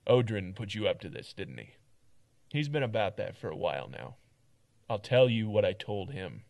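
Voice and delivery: firm, weary guard telling it straight; blunt, tired town guard; gruff guard voice. Acted. Second take of Mart.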